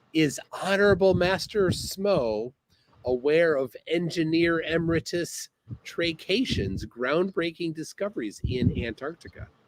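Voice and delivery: ordinary talk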